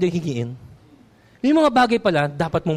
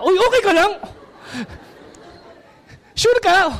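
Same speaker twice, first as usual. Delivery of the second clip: concerned friend; 10 semitones higher than usual. Acted. Asking the dying friend.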